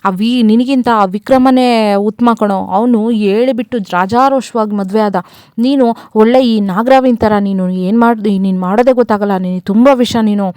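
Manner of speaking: mildly heated mock telling-off; retold scolding. Father rebuking his son over a secret romance, mild retold scolding. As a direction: scold him, as if retelling a family row. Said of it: "ಚೆನ್ನಾಗ್ ಬೈತಿರ್ತಾರೆ".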